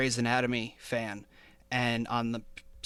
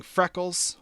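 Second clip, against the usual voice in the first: quoting Sawyer; 7 semitones higher, 4 dB louder than usual. Retold or imitated. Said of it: "Sawyer saying".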